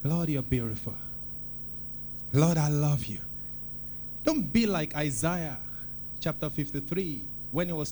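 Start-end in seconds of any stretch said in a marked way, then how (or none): 0.0-3.2 smiling tender prayer. Shown as a demonstration. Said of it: "you just look at God and you smile".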